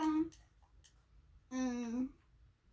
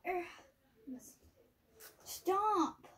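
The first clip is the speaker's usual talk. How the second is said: exasperated poked game character; 6 semitones higher than usual. Real, not acted. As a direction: cry out to make her stop. Being poked again.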